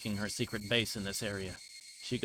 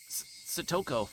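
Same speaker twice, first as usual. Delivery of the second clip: stammered, higher surprised call; startled; 6 semitones higher than usual. Acted. Brother startled to see his sister appear, stammering. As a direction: catch your breath and blurt her name.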